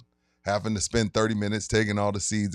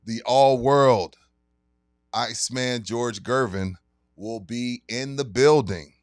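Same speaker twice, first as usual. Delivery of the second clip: sponsor ad read. Acted. Announcing the liquor store signing to listeners, hyped ad read. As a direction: pitch the event like a radio spot.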